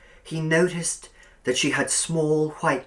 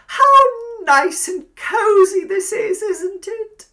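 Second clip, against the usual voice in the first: high, loud, cloying landlady voice; sugary old landlady; 11 dB louder than usual. A narrator's reading. Landlady inviting Billy to sit by the fire, cloying. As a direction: coax him over like a spider.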